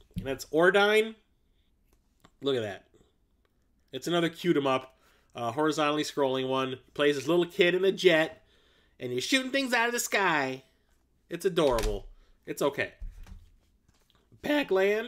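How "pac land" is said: breaking voice, cracking mid-word. Streamer going through arcade games, voice cracking. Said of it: "my voice just cracked".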